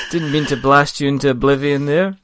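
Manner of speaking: a hint of a well-spoken gnome mage; lightly put-on polite English apology; well-spoken roguish gnome. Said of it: "he's well spoken".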